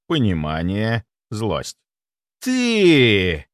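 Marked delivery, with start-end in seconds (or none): 2.4-3.5 hissed. Acted. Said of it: "прошипел он".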